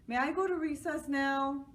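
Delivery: put-on high eager boy's question; child voice. A narrator's reading. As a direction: ask it like an eager kid, high. Joe asks.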